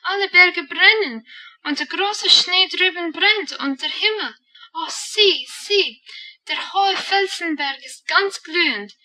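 put-on high, loud, thrilled child calling out; excited shout. A narrator's reading. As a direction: cry out in wonder at the glowing mountains. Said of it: "sprang Heidi auf und schrie". (aufgeregt rufend, hoch und laut)

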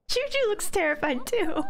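high, quick words through laughter; laughing. Real, not acted. Laughing at Juju's fear while watching. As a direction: giggle it out.

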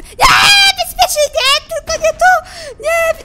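very high, loud screams; panicked screaming. Real, not acted. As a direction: scream in protest and terror. Monster reaches the hiding place.

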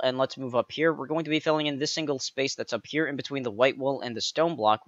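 ordinary delivery

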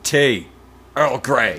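a crisp, commanding order; forceful. Shown as a demonstration. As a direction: command it like a captain. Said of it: "you have to be more forceful when you say it".

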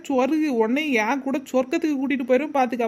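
lightly put-on threatening spirit; pretend ghost. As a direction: threaten as a fake possessed woman. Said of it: "என்னைய மாதிரி பேயாத அலையணும்".

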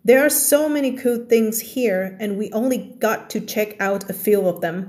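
slow, careful story reading for learners; slow reading aloud. Shown as a demonstration. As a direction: read each word out clearly for the class. Teacher reads story English slowly.

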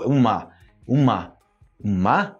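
"mar" ending on a stressed a, R dropped; accented open ending. Shown as a demonstration. Teacher shows learners the softened word, accented-ending demonstration. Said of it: "como se você acentuasse assim no final".

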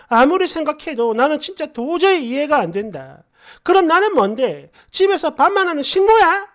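imitated upset girlfriend, pitch climbing high; tearful protest. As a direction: protest as a wailing girlfriend, building to indignation. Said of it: "엉엉 울면서 이런 소리를".

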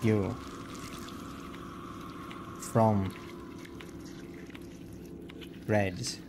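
slow, calm, eerie doll voice; broken doll whispering words apart; too calm creepy doll. Acted. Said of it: "This is the doll's voice".

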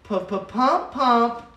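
flat monotone chant. Retold or imitated. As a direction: chant it flatly, no life. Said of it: "in the most monotone voice".

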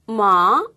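마 very slow and low; slow low third tone. Shown as a demonstration. Teacher confirms host's low third tone. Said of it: "이렇게 하시면 된다고 하네요".

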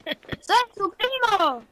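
high, loud, drawn-out correction; indignant yell. Real, not acted. Boy insisting he is the cousin, indignant yell. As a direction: yell it slowly to set him straight.

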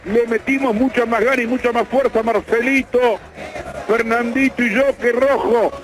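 exasperated, full-voiced football commentary; impassioned commentator; live play-by-play. Real, not acted. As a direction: lament the miss and keep calling play.

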